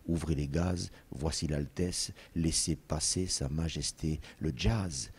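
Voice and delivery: a soft, slowed recitation of the poem; quiet, measured poetry reading; poem recital. Acted. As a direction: savour each line of the verse as you say it. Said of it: "il s'appuie sur qui, sur ce qu'il entend pour dire".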